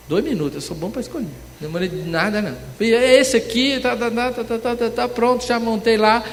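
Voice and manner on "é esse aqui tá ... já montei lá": high, loud rattled-off picking; eager re-enacted rush; hurried excited choosing. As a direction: rattle it off like grabbing things.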